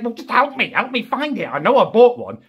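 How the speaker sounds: high, pleading whine at mum; high-pitched pleading to mother; desperate plea. Retold or imitated. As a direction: beg her to help you look.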